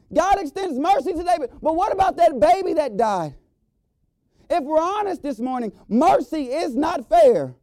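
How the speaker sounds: high, loud rising refrain, each line pressed harder; preaching at full force. Acted. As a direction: hammer home the repeated question to the church.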